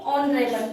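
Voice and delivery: ऑनरेबल starting on an o vowel, no h; silent H. Shown as a demonstration. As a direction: leave out the h and open ऑनरेबल on the vowel. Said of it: "इस एच को तो हम silent".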